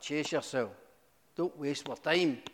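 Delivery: a hint of a bored officer brushing him off; fairly plain, lightly voiced dismissal; mild brush-off; dismissive police. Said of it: "they're like".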